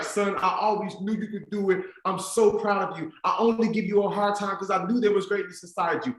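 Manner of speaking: high-pitched imitation of overcome mom; mildly acted tearful pride; tearful mother. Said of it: "literally breaks down into tears".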